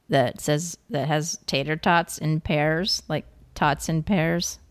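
slow, spelled-out pun setup. Shown as a demonstration. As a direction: drag out tots in pairs. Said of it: "Get it?".

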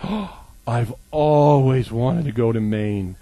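slow, breathy-sounding longing after a gasp; dreamy admirer. Retold or imitated. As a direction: sigh it like a dream trip. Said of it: "the other response was".

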